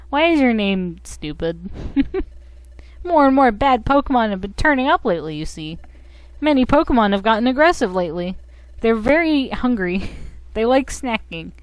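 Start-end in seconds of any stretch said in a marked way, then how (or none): 3.0-11.5 higher, quick character voice; game character explaining. Acted.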